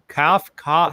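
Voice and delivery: "Cough, cough" with a broad open aw, like cawf; "Cough" said as kawf, teasing his vowel; mock coffee sound. Shown as a demonstration. S0 teases S1's coffee vowel, broad aw. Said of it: "you're saying it with that A in there".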